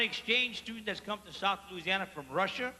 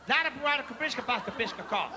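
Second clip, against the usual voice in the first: slow careful name. Acted. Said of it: "Vladi-, what?".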